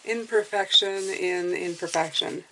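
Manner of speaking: whistly s sounds through aligners; whistling s. Real, not acted. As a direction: let the s whistle through your teeth. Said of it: "Sorry about the whistling".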